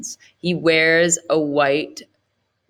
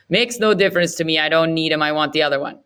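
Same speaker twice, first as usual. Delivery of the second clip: curt Setji voice; faster than usual. Acted. Setji refuses Thomas.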